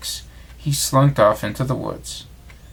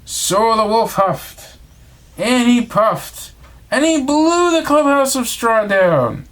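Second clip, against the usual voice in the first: higher and slower, blowing the words out; huffing and puffing; 9 semitones higher, 3 dB louder, slower than usual. A narrator's reading. Narrator acting out the wolf blowing the house, slow and high. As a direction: puff each phrase out like the wolf blowing.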